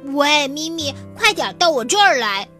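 calling up high and fast. Acted. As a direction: shout down from the treetop. Calling from treetop.

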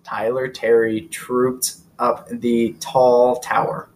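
slow, careful tongue twister; tongue twister speeding up. Shown as a demonstration. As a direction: spell out each T word slowly. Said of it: "tongue twister for you".

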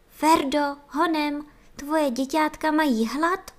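the nurses cry out to Ferda to hurry; alarmed cry. A narrator's reading. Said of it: "vykřikly chůvičky".

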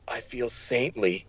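soft, slow, faint murmur; barely holding on, say it faintly; weak wounded voice. Acted. Injured twin answering his brother, soft slow faint murmur.

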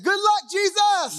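high-pitched, hasty send-off; mock farewell. Preacher mimics a believer abandoning Jesus, high mock farewell. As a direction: toss out a high goodbye as you desert. Acting out deserting Jesus in danger.

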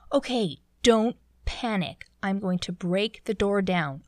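captain's firm announcement, mildly voiced; retold captain, mock-authoritative; yelling captain. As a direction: imitate an officer taking charge, emphatic but not shouted. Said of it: "he's, like, yelling".

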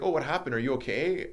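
retold worried questioning; concerned ranger. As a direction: put on an over-eager show of concern. Acting out the suspect ranger's concern.

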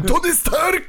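high imitated shout of the name. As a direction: belt out the name, mimicking him. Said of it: "Ja tylko coś usłyszałem". (naśladowany okrzyk)

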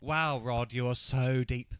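slow, drawn-out mock admiration; sarcastic praise. Real, not acted. Mocking Rod's beach wisdom, slow and sarcastic. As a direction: stretch it out, dripping sarcasm.

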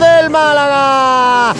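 slow stretched shout; drawn-out shout. Real, not acted. Goal call ending.

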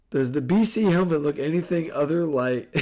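stumbling through the question while laughing; laughing read. Real, not acted. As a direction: question broken up by giggles. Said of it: "I can't even read it straight".

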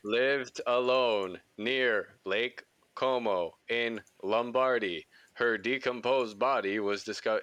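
slow, deliberate Italian accent read; lightly Italian-accented news read; slow Italian-style read. Shown as a demonstration. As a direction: savor the place names with an Italian accent. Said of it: "do how you were just doing it".

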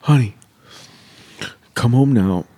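loud, pressing call home; mock urgent call. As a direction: sell the urgency to the wife. Fake panicked call to wife.

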